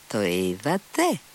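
slow, drawn-out "Το είδατε; shrieked again. A narrator's reading. Stretch each word, pointing at the notes. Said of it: "τσίριξε και πάλι".

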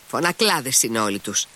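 usual speaking voice

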